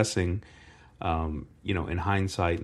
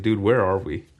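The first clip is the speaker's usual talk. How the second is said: incredulous; 3 semitones higher, 4 dB louder, slower than usual. Retold or imitated. Retells culture shock at home.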